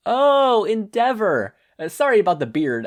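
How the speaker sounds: high, loud surprised outburst; sudden recognition. A narrator's reading. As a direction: it just clicked, blurt it. Kathleen suddenly recognizes Endeavor.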